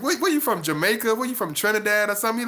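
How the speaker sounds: mock-puzzled, pitch lifted; puzzled questioning. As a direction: ask as if baffled by the accent. Retells his puzzled questions to friend.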